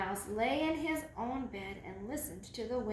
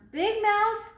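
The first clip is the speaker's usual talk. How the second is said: higher, much louder second call; 9 semitones higher, 11 dB louder than usual. Acted. Little mouse calling loudly to snoring Big Mouse. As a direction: call out to wake him. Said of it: "he called".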